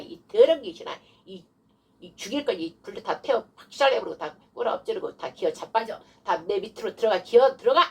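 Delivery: demonstrated rebuke of an evil spirit; stern exorcism demo; forceful command. Shown as a demonstration. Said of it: "막 이렇게 강력하게 해야 돼요".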